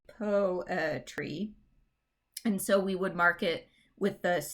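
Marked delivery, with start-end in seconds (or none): 0.1-1.5 POETRY sounded out as po-e-try; measured PO-e-try, beat by beat; syllable by syllable. Shown as a demonstration. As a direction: separate the three beats of POETRY, PO strongest. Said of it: "there's three syllables in poetry".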